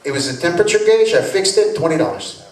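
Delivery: put-on light Spanish-accented mechanic; a hint of a Latino accent; friendly garage mechanic, lightly accented; Mexican accent. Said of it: "Juan Martinez's little shop".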